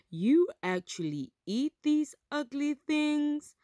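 high, disbelieving question; disgusted surprise. Acted. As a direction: recoil at the ugly food. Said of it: "asked Milo".

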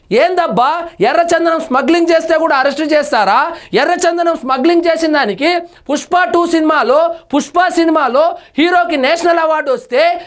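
mildly imitating an indignant politician; lightly put-on outrage, as if defending a follower; mock indignant retort. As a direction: commentator mockingly voices a politician, lightly indignant. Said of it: "అనే అవకాశం కూడా ఉంది".

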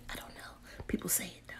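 near-silent whisper; whispered aside. Real, not acted. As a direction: mutter it under your breath.

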